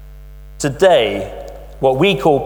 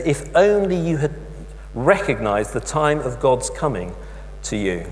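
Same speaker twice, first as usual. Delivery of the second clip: softer, lower, fading lament; sorrowful lament; 3 semitones lower, 5 dB quieter than usual. Retold or imitated. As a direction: let it sink away in grief. Jesus weeping over Jerusalem.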